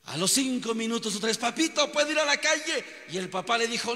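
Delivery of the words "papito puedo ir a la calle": put-on higher-pitched child begging to go out; pleading little boy again. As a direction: nag your father like a restless kid. Boy asks father again.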